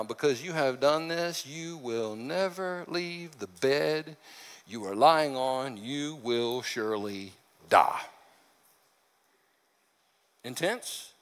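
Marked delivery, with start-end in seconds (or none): 0.0-8.0 solemn prophecy. Acted. Messenger relays death prophecy.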